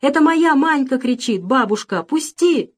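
put-on little girl begging grandmother to release her; pleading to be let go. A narrator's reading. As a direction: tug away toward her goat. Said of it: "старалась вырваться Маринка".

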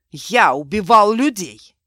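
anguished shout. Acted. Mark confesses killing.

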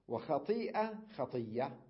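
وخطيئة with the hamza, then خطية with a doubled y; slow demo of both forms; خطية without the hamza; hamza then dropped. Shown as a demonstration. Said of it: "يعني ألفظها هكذا".

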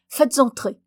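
loud, eager command; delighted exclamation. A narrator's reading. Scholar having the visitor shown in, delighted. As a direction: call out gladly to admit him. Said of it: "s'écria le savant tout réjoui".

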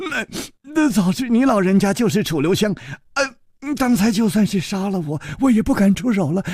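murmuring servant. Acted. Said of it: "喃喃地说".

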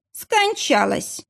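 slow, high, flat-out indifferent. A narrator's reading. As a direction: drop the news without caring. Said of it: "равнодушно произнёс". (равнодушно, медленно)

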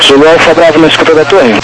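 tinny radio transmission; crackly military radio. Real, not acted. Tower calling over radio.

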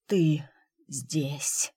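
wounded man breathing his relief out; breathed out. Acted. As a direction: let it escape on the exhale, not a question. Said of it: "не фраза, выдох".

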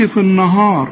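النهار wrongly thickened; wrong heavy sound. Shown as a demonstration. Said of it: "ما تقولش". (تفخيم خاطئ للنون والهاء في النهار)

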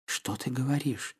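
a timid, hushed murmur; faltering. A narrator's reading. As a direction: barely get the words out, shaken. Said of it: "пролепетала Полина".

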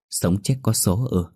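"Sống chết có số ư" said slowly, stunned, with a questioning lift on "ư"; mother repeats the shaman's words, slow and stunned; slow, stunned echo. Acted. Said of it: "nhận lại câu".

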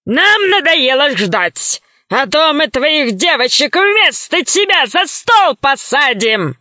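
slow menacing gorilla voice; slow gorilla threat. Acted. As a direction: threaten slowly like a beast.

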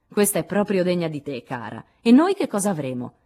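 lightly voiced lively teenage girl; exclaiming. A narrator's reading. Jo praises Beth, then asks what they'll get, mildly exclaiming. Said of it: "esclamò Jo".

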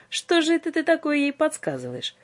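high, teasing question; a high, mocking tease. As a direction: needle him playfully. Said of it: "поддразнил его Иоанн".

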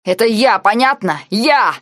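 loud, urgent confession; feverish outburst. A narrator's reading. Nike confessing to Blau, feverish and loud. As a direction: blurt it out feverishly. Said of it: "Нике говорил горячечно".

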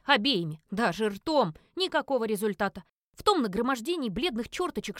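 ordinary delivery, nothing marked

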